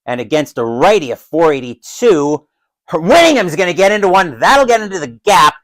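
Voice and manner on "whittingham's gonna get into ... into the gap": lightly raised play-by-play voice; excited hit call. Pretend. Commentator calls a hit into the gap, mildly excited. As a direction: lift the call as the ball finds the gap.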